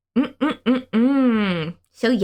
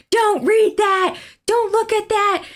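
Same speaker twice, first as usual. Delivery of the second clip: higher, slow alarmed warning; alarmed dad; 10 semitones higher, slower than usual. Retold or imitated. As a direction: hurry to shield a child. Dad covering child's eyes.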